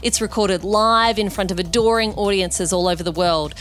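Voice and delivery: scripted host introduction, neatly phrased; podcast intro read. Real, not acted. Host introducing the weekend guest to listeners, scripted intro read. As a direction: read it as a polished show opener.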